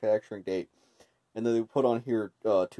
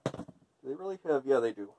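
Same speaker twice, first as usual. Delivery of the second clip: muffled voice behind a respirator; through a gas mask. Real, not acted. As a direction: talk through a face mask. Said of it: "As you can hear, the T F sixty does actually have half decent voice, uh, transfer".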